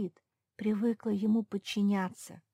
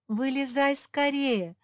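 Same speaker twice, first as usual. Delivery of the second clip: higher, louder, slow order; commanding; 8 semitones higher, 6 dB louder, slower than usual. A narrator's reading. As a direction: give the order firmly. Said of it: "скомандовала Зефирка".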